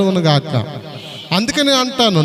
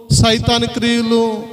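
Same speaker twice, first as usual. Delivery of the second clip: slow, drawn-out sermon list; preaching emphasis; slower than usual. Acted. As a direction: spell out each evil slowly, with weight. Preacher lists enemies, drawn out. (నెమ్మదిగా ఒత్తిడితో ప్రసంగం)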